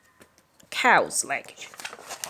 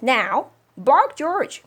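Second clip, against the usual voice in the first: louder, rising firm order; insistent command; 6 semitones higher, 7 dB louder, slower than usual. Acted. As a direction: push him to obey. Mother insisting.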